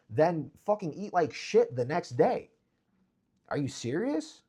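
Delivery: high, loud incredulous rant; exasperated rant. Real, not acted. Mocking guys who waste money at clubs, loud rant. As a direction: rant in disbelief.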